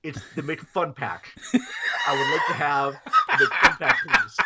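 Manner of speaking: mock-polite squeaky insistence; insistent repeat. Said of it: "I'm like".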